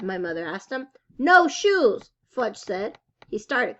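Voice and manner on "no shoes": put-on higher, louder child's refusal; a little boy saying no; stubborn toddler.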